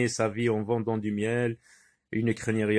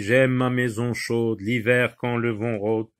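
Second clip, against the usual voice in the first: poem recitation. Acted.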